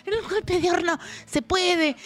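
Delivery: lightly voiced scheming man; a hint of a cheeky Alberto; Alberto's voice. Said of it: "Y él le dice". (voz de Alberto pícaro)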